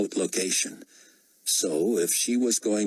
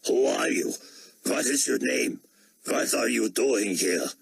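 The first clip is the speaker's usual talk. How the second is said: put-on eager German accent, raised pitch; 5 semitones higher than usual. A narrator's reading. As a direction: pepper him with questions, German accent.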